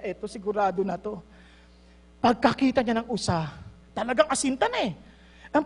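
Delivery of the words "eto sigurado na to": very soft, low hushed voice; quiet hunter sure of the shot; hushed aiming. Retold or imitated. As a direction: whisper it while taking aim. Hunter whispering while aiming.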